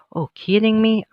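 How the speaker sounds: high, loud, breathy burst of disbelief; disbelieving gasp. A narrator's reading. Alice told not to be overdramatic, blurting in disbelief.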